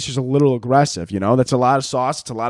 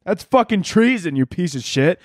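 higher, mocking angry adult; mock outrage; 6 semitones higher than usual. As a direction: lampoon the shocked grown-ups, pitched higher. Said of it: "everybody's like".

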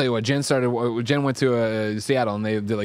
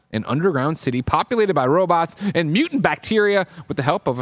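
animated article read-out; news read. Acted. Host returns to the article for listeners, news read. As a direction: read the story out with measured, punchy emphasis.

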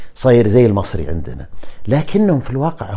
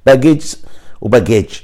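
stereotyped French pronunciation; 2 semitones higher, 4 dB louder than usual. Shown as a demonstration. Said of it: "الاستيريوتايب كذا على الفرنسيين شلون ينطقون".

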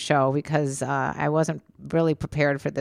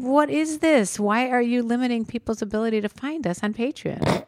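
higher-pitched indignant challenge; pitched-up protest, taking a stand; indignant retold demand; 4 semitones higher than usual. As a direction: retell it as an outraged complaint. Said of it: "I said".

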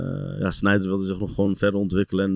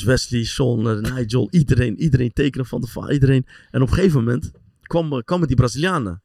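excited and louder; 3 semitones higher, 5 dB louder than usual. Real, not acted. Excited listing.

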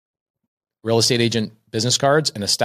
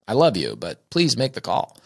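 sweet wife. Retold or imitated. Wife sweetly urging her husband to call the leads, tender. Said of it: "my wife is very sweet".

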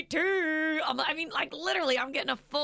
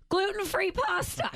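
much higher shout of "Gluten-free pasta"; mock shout; 9 semitones higher than usual. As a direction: bellow it as a joke. Joking shout about the pasta.

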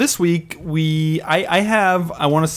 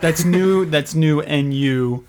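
drawn-out slow; much slower than usual. Pretend. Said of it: "J J New Thang Epperson".

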